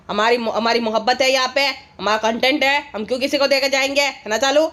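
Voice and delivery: a hint of a sulky man; lightly voiced husband. Voicing the other vlogger, husband.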